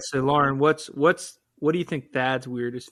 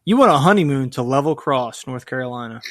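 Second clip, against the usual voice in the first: booming prize announcer; 6 dB louder than usual. Pretend. Mock game show prize reveal.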